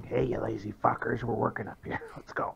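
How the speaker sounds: hushed mock scolding, ending in a whisper; almost whispering. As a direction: half-whisper it as a call to companions. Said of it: "and almost whispering".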